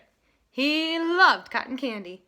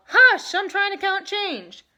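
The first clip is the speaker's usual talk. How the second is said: loud, slow, higher irritated voice; annoyed ticket seller; 9 semitones higher, 9 dB louder than usual. A narrator's reading. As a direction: snap at the noisy kid. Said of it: "The ticket seller called".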